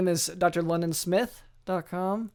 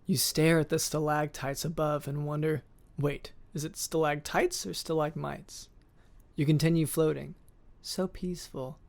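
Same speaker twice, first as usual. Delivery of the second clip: measured second-person story narration; scene-setting narration. A narrator's reading. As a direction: set a peaceful scene, softening at the end. Reads a second-person guided scene.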